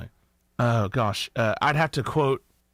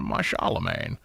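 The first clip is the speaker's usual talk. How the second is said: tag; 4 dB quieter, slower than usual. Shown as a demonstration. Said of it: "Good old Sean Connery".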